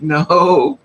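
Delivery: loud, drawn-out no; acted-out firm refusal; emphatic refusal. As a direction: shut down the offer loudly. Refusing a stranger's drink offer.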